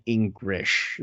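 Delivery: "English" drawn out with a Japanese accent. Shown as a demonstration. Actor naming the Engrish a seiyuu would do, Japanese accent. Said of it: "like, the accented English".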